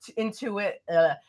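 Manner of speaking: stumbling over a long word; tongue-tied. Real, not acted. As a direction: trip on the syllables and restart. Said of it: "I can't talk right now".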